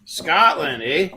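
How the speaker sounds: odd Scottish lilt with a Yooper "eh"; weird Scottish accent. Real, not acted. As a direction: slip into Yooper-flavoured Scottish. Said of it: "kind of like the weirdest Scottish accent".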